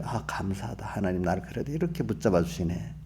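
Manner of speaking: softly voiced, low-key gratitude; quiet, understated prayer of thanks; mild thankful acceptance. Preacher models thanking God for holding on, quietly grateful. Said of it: "연습해야 돼요".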